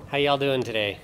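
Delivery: slipping into a Southern accent on "y'all"; a friendly Southern "How y'all doing"; light, half-aware Southern greeting. Real, not acted. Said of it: "almost kicked in my southern accent".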